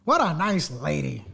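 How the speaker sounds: slow, dripping sarcasm; drawn-out sarcastic praise. Real, not acted. Co-host repeating the mock compliment, slow and sarcastic.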